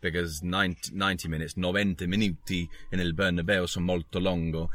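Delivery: lightly put-on Italian accent over Spanish words; mock Italian accent. Juanito warning Inter Milan as he leaves the pitch, in mock Italian accent. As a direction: play it as a cheeky Italian-accented footballer. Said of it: "he says in what he takes to be Italian".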